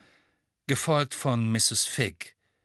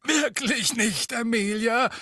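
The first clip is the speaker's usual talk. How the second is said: smirking; 11 semitones higher, 4 dB louder than usual. A narrator's reading. Fudge mocking Madame Bones, smirking smugly. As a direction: tease her with a grin in the voice. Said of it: "unentwegt feixend".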